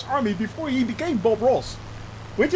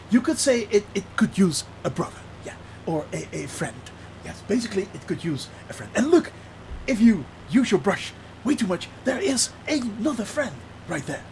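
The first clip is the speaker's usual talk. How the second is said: Bob Ross; 3 dB quieter than usual. Retold or imitated. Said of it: "Bob Ross".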